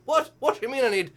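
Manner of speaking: mock outraged dad. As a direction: play a dad protesting in disbelief. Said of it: "And meanwhile, he's like".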